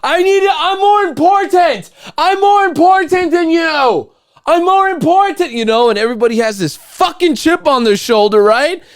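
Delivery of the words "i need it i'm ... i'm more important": shrill high mock voice of a pushy driver, much louder; high, loud mock "I'm more important"; mock entitled driver. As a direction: sneer it like a self-important driver in traffic. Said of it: "everybody's just fucking".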